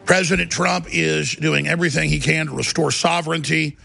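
dramatic show-opening rant; paranoid late night rant. Real, not acted. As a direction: open the show like a crusade.

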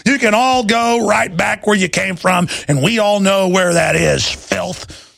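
high, wailing mock whimper; mock begging. Host mocks cowards begging officials, high and wailing. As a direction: ham up a cowering coward pleading.

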